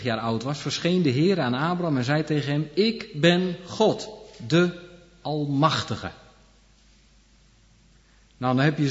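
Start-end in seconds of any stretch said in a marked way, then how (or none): 2.7-6.1 voice of God. Acted. God announcing himself to Abram, slow and solemn. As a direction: let God proclaim it slowly and grandly.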